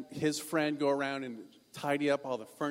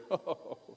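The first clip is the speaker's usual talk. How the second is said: snobby laugh; 2 semitones higher, 4 dB quieter than usual. Acted. Snobs laugh at their own joke.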